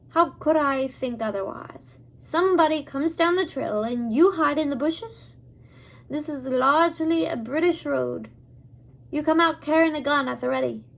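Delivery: put-on a light, amateur Scottish accent for the old man; old Abner steadies the hidden children in a mild Scottish accent. Abner, lightly Scottish, tells them to stay in the wagon. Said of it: "not very fluent in Scottish accents".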